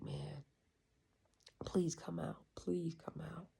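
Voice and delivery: whispered begging, almost a prayer; pleading whisper. Retold or imitated. Sick in the ceremony, he begs his body in a whisper. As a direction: breathe the plea under your breath.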